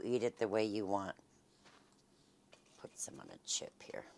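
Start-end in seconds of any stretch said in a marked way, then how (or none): 2.8-4.0 soft whispered aside; whispering. Real, not acted. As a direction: whisper it to yourself. Quiet aside while serving.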